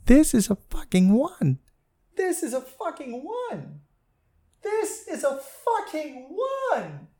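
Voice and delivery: slow, menacing bass-voiced woman; deep angry stripper voice. Stripper calling out a customer, slow and menacing. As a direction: growl it out low and slow, building dread. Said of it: "this woman's voice ... a baritone bass".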